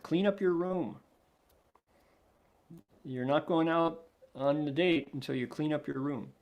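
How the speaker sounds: lightly voiced parent laying down a rule; firm parent. Grown-up telling the child to tidy up, lightly acted firm parent. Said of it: "be like the grown-up who says to the child".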